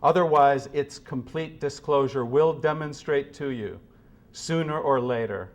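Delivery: measured, grave reading of a philosophy text, often falling soft at line ends; solemn reading. Acted. Speaker reading Sloterdijk's words to a hushed room, grave and measured. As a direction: read it like a sermon, unhurried and heavy. Reads Sloterdijk passage aloud.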